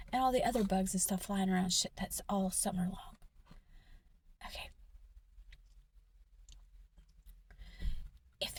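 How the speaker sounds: loud, forceful whispered rant; heated whisper. Real, not acted. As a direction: whisper it hard and bitter. Venting about cleaning and money.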